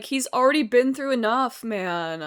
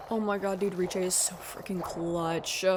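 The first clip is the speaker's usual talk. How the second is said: whisper; 6 semitones lower, 5 dB quieter than usual. Real, not acted. Awed whisper at companion's save.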